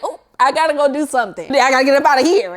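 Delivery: fast, squeaky oop exit; hurried excuse. Shown as a demonstration. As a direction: rush off with an excuse. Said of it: "you have to be a little stronger".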